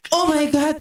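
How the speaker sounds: starts near normal, climbs to high laughing shrieks; building mock scream. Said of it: "Parang sumisigaw". (papalakas na pabirong sigaw)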